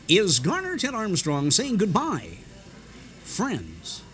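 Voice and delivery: mock Garner Ted Armstrong fade-out; rubber band preacher goodbye. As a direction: stretch the goodbye like an old radio preacher. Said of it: "all of his voice was up here".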